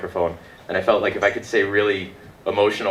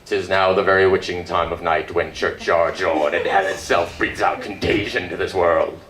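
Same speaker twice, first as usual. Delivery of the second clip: Shakespeare recitation. Retold or imitated. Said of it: "I was big on Hamlet at the time".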